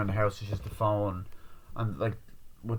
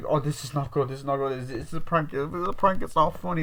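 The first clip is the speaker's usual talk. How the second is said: higher, fretful acted voice; mock worried babble; 5 semitones higher than usual. Someone hopes it's a prank, mock anxious babbling. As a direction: babble in pretend alarm.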